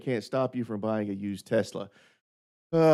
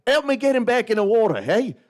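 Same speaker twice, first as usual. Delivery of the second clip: much higher and louder, hammed-up beachgoers; mocking onlookers; 10 semitones higher, 5 dB louder than usual. Retelling a joke, mocking beachgoers, high and loud. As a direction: play the strangers jeering at the fat man in the sea. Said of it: "They were like".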